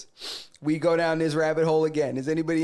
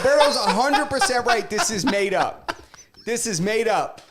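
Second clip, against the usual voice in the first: emphatic declaration; 6 semitones higher, 3 dB louder than usual. Retold or imitated. Acting out his own verdict.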